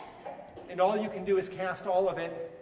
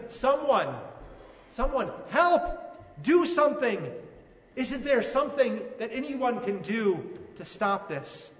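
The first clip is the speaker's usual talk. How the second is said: mildly raised, pleading cry for help; desperate father; 3 semitones higher, 3 dB louder than usual. Acted. A father begging the crowd to save his son, pleading. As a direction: plead urgently with anyone nearby. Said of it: "you can almost hear him".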